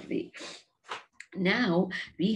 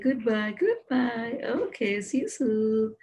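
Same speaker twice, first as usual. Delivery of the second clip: a hint of a little hamster saying goodbye; lightly voiced hamster; 3 semitones higher, 3 dB louder than usual. Hamster saying goodbye to the children, lightly voiced creature. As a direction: lightly play the departing pet. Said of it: "And he said".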